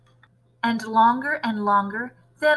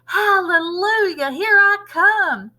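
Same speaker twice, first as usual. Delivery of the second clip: put-on high, loud, slow old-crone cry, half laughing; cackling grandma; 9 semitones higher, 7 dB louder, slower than usual. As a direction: crow it out like a triumphant old witch. Voices Grandma.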